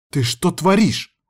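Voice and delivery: high, drawn-out indignant question; lashing out. A narrator's reading. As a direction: round on him in outrage. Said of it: "накинулась на меня Аяна".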